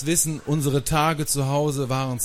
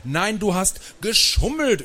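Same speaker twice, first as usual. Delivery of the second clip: high, emphatic contradiction; raised, indignant accusation; drowning out; 9 semitones higher, 4 dB louder than usual. A narrator's reading. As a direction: shout the other child down. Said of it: "übertönte ich Lutz".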